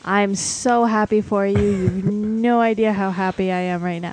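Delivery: deadpan fake enthusiasm; sarcastic. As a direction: lay the sarcasm on thick. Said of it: "The sarcasm is thick".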